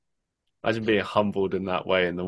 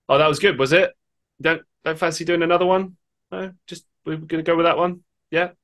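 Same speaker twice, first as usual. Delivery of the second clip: higher mock-cheerful sarcasm; sarcastic; 8 semitones higher than usual. Lead actor mocking the one-take crew, sarcastic. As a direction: needle the crew with fake agreement. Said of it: "he sort of sarcastically just turned around and went".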